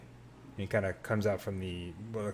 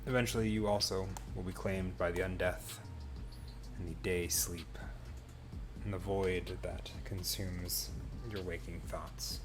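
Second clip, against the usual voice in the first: game master narration; 3 dB quieter than usual. Acted. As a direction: ease the scene to its close, unhurried. Game master closes the session.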